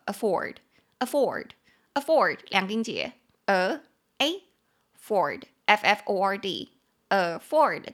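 afford said slowly, spelled out letter by letter; slow spelled demo. Shown as a demonstration. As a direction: teach afford syllable by syllable. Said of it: "这个字就叫做afford".

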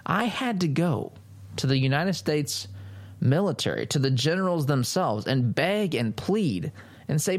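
mocking Pelosi. Nancy Pelosi mocked as she tells of going to the generals, mock-earnest. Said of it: "this is what she wants to be able to say".

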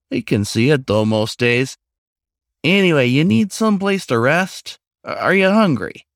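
eager, hospitable raccoon. Acted. Raccoon offering the stranger rest and food, eagerly. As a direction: fuss over the guest a little.

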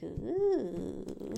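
long, spooky "ooh"; ghostly held moan; eerie "ooh". Retold or imitated. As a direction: imitate a creepy feeling with a drawn-out ooh. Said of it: "this creepy, like, eerie feel".

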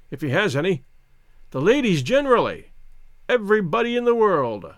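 merry, insistent toasting; tipsy toasting Englishman. Acted. Narrator toasting everybody with the old soldier, merrily exuberant. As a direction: reel off toasts with rising gusto.

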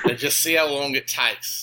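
broad mock Aussie accent; Australian accent. Guest dreams of provoking Australians, in overdone Australian accent. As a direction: hold the fake Australian accent. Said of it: "just talk in my Australian accent".

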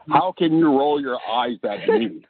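lightly voiced indignant wrestling commentator; Jesse the Body. Wrestler guest teasing the host for eye-rolling, mock indignant. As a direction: play mock offence in a hint of impression. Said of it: "That's my best Jesse impression".

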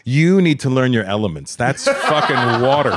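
laughing. Retold or imitated. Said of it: "I go".

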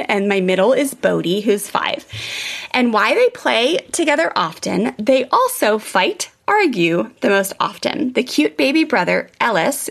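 measured read-aloud of a written account, somewhat slowed. Acted. Host reading a mom's success story to listeners, read-aloud. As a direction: read it out with lifted phrase starts.

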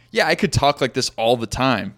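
put-on British or Australian accent; mimicked foreign accent. Shown as a demonstration. Host showing how one mimics an accent, mock British or Australian. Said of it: "when we mimic an Australian accent or a British accent".

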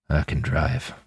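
worn-out, cracked, quiet reply; cracked, broken voice. A narrator's reading. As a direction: speak through a broken voice. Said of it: "in a cracked, broken-sounding voice".

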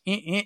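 two quick mock effort noises; imitated effort noise. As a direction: mimic little grunts of fiddling with a knob. Imitating effort while turning knob.

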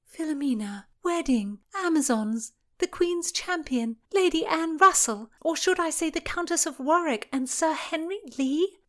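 high, loud, incredulous voice; disbelief. Acted. Constance realizing who wrote the letters, high and incredulous. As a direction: pile the names up in rising disbelief. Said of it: "Constance asked in disbelief".

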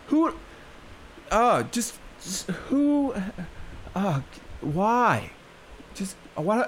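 high, stunned disbelief; incredulous. Real, not acted. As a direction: squeak out the questions in disbelief. Disbelief at the article.

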